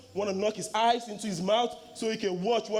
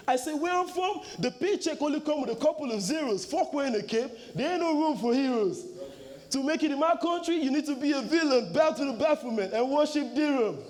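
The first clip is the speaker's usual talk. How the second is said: same verse brought back higher and with more push; hyped repeat; 3 semitones higher than usual. Shown as a demonstration. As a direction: give it back to the crowd with more energy. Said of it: "Now let me bring it back".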